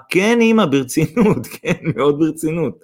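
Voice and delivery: high, fervent yes; emotional confirmation. A narrator's reading. Bride confirms to her new mother, emotional. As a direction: affirm it with rising feeling.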